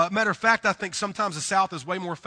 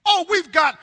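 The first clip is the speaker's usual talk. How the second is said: higher, louder, coaxing hospitality; insistent Southern host; 6 semitones higher, 6 dB louder than usual. Retold or imitated. Southern host pushing a guest to stay, eager and higher. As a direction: press them to stay with eager warmth. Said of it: "what people do in the South".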